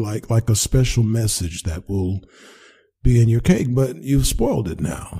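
high, stammering fib; nervous excuse. Acted. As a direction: scramble for a cover story.

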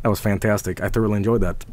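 low, soft verdict; subdued satisfaction. Real, not acted. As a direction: murmur approval, voice dropped right down. Winding down after game.

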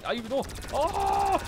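high, loud sudden cry; real startled yelp; shocked yelp. Real, not acted. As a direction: gasp out a shocked oh. Nearly dies in game.

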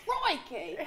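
high, playful Australian exclamation; Australian accent. Shown as a demonstration. Joking with friends in a high Australian accent. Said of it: "Is that Australian?".

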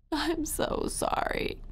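high, slow, half-voiceless whimper; thin tearful child's plea; sobbing apology. Acted. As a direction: squeeze the words out as a sobbing child. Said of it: "I just kept sobbing".

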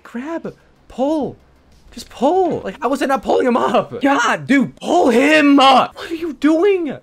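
high, very loud, slow drawn-out cries; full gamer rage, dragged-out yells; desperate yelling. Real, not acted. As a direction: scream at him to pull. Raging at game character.

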